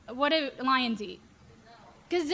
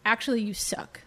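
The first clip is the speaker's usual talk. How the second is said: tempter's jab; 5 semitones lower than usual. Acted. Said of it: "the tempter says".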